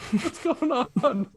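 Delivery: very high, slow squeaky voice; silly high voice. Pretend. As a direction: stretch it out like a cartoon critter.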